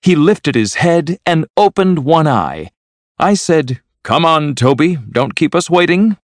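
high, excited account of amazing news. A narrator's reading. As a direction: tell it in high-pitched astonishment. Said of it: "looking very excited".

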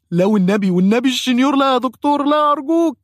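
very high, loud, frantic begging; panicked pleading. Retold or imitated. Patient begs the dentist under the drill, in frantic high pleading. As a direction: squeal for mercy.

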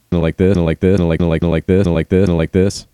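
words caught in a stuttering loop; looping voice effect. Shown as a demonstration. Streamer showing a friend voice tricks, looping voice effect. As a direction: repeat the phrase like a looper. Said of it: "cool stuff with my voice like this".

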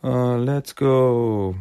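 slow, dazed trance voice; zombie-like trance. Retold or imitated. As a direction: drone it like a hypnotised zombie. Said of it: "like zombies".

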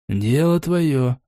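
slow, calm reply; unhurried and calm. Acted. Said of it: "спокойно ответил тот".

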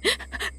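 a breathy, unvoiced sob. Wife sobbing as the exorcist arrives. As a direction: catch a sob before speaking. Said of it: "khóc nấc".

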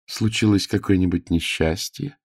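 put-on a flustered child making excuses to a lady; boy page Elo, nervous. A narrator's reading.

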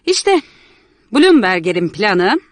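put-on young man explaining, a bit awkward; lightly voiced young man. Young man explaining the ruined plans to Miss Martha, lightly voiced. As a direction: calmly lay out what happened.

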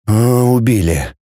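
slow, heavy, forced-out words; barely able to speak. A narrator's reading. Boy tells of killed parents, barely getting it out. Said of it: "еле выговорил он".

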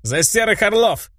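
громкий бодрый тост, выше голосом; провозгласить тост от души. A narrator's reading. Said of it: "сказал я следующий тост". (тост, поднятый за столом)

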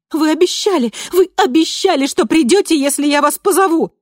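pleading cry. A narrator's reading. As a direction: hold her to the promise, frantic. Clinging, pleading with Candice. (отчаянная мольба, гораздо выше и громче)

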